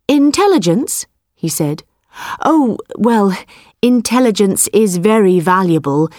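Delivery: nervous farmer voice. Acted. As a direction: bluff your way out, a bit scared. Frightened man tricks the tiger.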